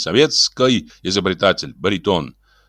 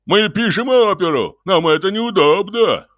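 high, drawn-out hysterical protest; frantic high-pitched bawling; wailing outcry; 12 semitones higher than usual. A narrator's reading. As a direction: wail in complaint, pitch way up. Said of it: "завопил Ляпис".

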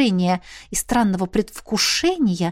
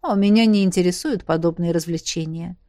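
lower, dry and curt; dry reply; 3 semitones lower than usual. Acted. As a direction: answer coolly, unmoved. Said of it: "сухо ответил Хуан".

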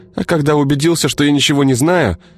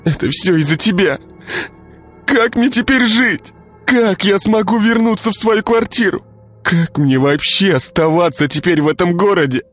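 put-on high, furious girl; 13 semitones higher than usual. A narrator's reading. Girl beats Igor, blaming.

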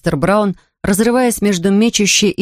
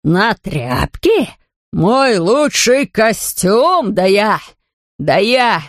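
sputtering fury; much slower than usual. A narrator's reading. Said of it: "чуть не лопнул от бешенства".

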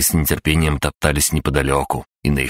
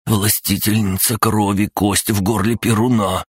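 awed worshipper; 6 semitones higher than usual. Acted. Servant worships goddess.

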